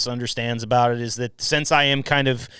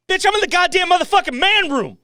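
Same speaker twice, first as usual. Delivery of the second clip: mock bravado. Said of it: "I think about that".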